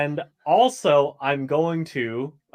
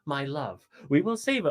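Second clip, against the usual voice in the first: mildly theatrical heroic vow; lilting, showy promise to the crowd; dramatic entrance; 3 dB quieter than usual. Acted. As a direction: pledge a rescue like a stage hero. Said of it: "making a dramatic entrance, and say".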